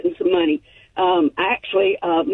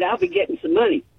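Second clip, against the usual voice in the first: excited; 8 semitones higher, faster than usual. Real, not acted.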